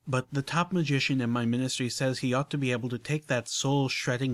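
a hint of genteel unicorn, explaining; lightly voiced refined lady. Rarity explaining soul jars to Applejack, lightly refined voice. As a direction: lay it out carefully, ladylike.

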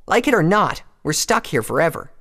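loud, high-pitched rebuke; Rainbow's angry lashing. A narrator's reading. Rainbow telling Applejack they are stuck, angry and loud. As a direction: drive each point home, high and angry. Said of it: "stunned by the angry lashing from her friend".

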